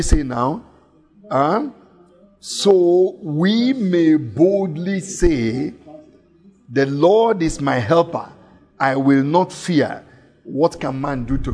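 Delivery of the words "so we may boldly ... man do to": "boldly" slow and emphatic proclamation; bold reading. Acted. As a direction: read it like a confident declaration. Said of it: "preacher reads verse boldly".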